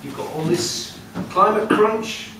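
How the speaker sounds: loud, high, giggling through the words; laughing witch. Acted. The witch laughs as she tells the farmer to move. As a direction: tell him to move while laughing.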